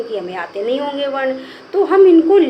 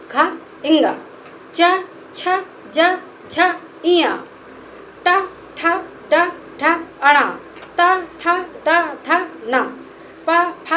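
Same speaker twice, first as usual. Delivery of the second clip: alphabet recitation; 5 semitones higher, slower than usual. Shown as a demonstration. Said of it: "वर्णमाला फिर से पढ़ के सुनाते हैं".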